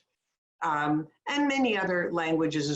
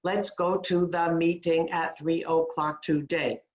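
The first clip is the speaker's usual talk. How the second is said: flat and rushed. Shown as a demonstration. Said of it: "Fast, okay?".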